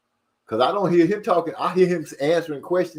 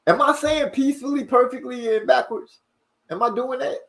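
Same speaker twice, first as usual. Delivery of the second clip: incredulous; 10 semitones higher than usual. Real, not acted. Incredulous about his own misreading.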